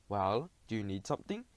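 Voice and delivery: low, eerie dragon voice; menacing low growl of a beast; scary dragon voice. A narrator's reading. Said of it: "a scary voice sounded".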